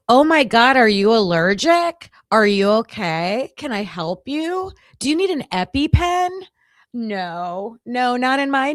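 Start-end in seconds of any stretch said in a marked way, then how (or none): 0.1-6.3 loud, high exaggerated concern; mock concerned. Mocking the stranger's missing sympathy, loud and pitched up. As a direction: ham up the kindness she should have shown. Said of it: "snarky comment".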